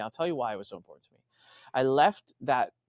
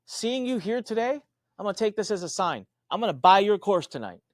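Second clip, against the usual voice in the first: excited fan; 8 semitones higher, 4 dB louder than usual. Retold or imitated. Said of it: "He's like".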